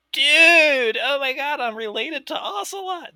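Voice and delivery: high, stretched-out fanboy excitement; mock-ecstatic squeal of realization; excited retold outburst. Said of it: "and I was like".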